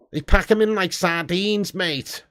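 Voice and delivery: lightly put-on Scouse; slow down into a mild Scouse accent. Streamer joking with chat about the packed stadium, light Scouse accent. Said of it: "I did a Scouse accent then".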